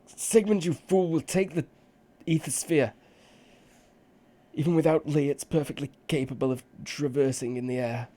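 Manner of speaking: high, loud wizard shout. Acted. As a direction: yell it back across the water. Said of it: "One of the wizards shouts back".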